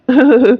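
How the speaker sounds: short teasing laugh; light chuckle. Acted. पति पत्नी को छेड़कर हँसता है. (हल्की हँसी)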